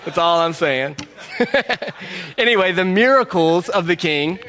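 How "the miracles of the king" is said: "miracles" carefully said with MEER up front; "miracles" in careful standard form, playfully over-corrected; corrected pronunciation. Shown as a demonstration. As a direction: stress "miracles" as "MEER-acles", louder. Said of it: "I'm getting better".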